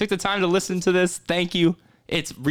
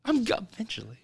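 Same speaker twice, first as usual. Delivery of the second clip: whispering; 7 semitones higher, 7 dB quieter than usual. Real, not acted. Whispering while phone call rings.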